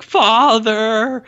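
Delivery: high shouted call for father; Robert the Bruce yell. Retold or imitated. Retelling the tower scene, son bursts in shouting. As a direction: burst in yelling for his father. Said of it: "he's like".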